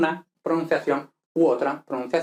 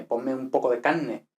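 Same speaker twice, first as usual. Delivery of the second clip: Andalusian accent, carne as canne; relaxed Andalusian; 2 semitones lower, 3 dB quieter than usual. Shown as a demonstration. Teacher plays an Andalusian ordering, relaxed Andalusian. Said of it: "por ejemplo, del andaluz".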